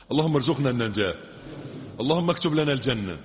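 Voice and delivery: steady, measured prayer cadence; supplication. Acted. Preacher leading the congregation in prayer, measured. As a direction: pray over the people in a steady chant.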